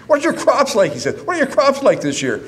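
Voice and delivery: put-on a gruff old dad making small talk; old father asking. Father asking about crops.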